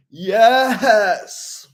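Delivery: put-on high, loud kid's cheer; drawn-out mock-ecstatic yell; Steven. Imitating a video kid overjoyed about games, hammed-up cheer. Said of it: "the Waffle Pone kid, Steven".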